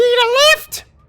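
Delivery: very high, very loud little creature voice. Game master voicing a small purple kobold speaking to the players: high-pitched kobold voice. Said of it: "a high-pitched voice say to you".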